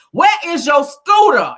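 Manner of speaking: loud, high, slow mock shout; a drawn-out scolding shout in a put-on diva voice; Nene Leakes impression. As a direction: scold her like a reality TV star. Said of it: "in my Nene Leakes voice".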